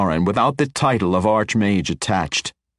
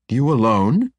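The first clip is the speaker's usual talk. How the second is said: higher, louder, cutting challenge; sharp question; 6 semitones higher, 4 dB louder than usual. A narrator's reading. Matron challenging the wizard's ambition, sharp. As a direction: catch him out. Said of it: "asked sharply".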